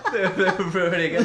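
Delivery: giggling brag; laughing. Shown as a demonstration. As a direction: call it out through a laugh. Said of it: "repeats the line".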